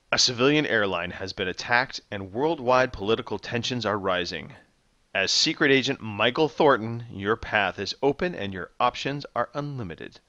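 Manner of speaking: measured dramatic trailer narration; movie trailer voice. Acted. Host reading a game's box description to contestants, movie trailer voice. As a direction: read it like a film trailer announcer. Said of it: "In my best movie trailer voice".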